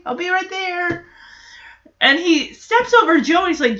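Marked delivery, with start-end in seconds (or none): 0.1-1.1 a soft whisper, as if into a microphone; whispering into the monitor. Retold or imitated. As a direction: breathe it into the baby monitor. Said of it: "talk into it like a microphone".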